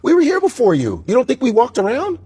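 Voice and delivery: hammed-up caveman talking back; ancient people voice. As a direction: play the first humans, cocky. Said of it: "I don't think they sounded like that".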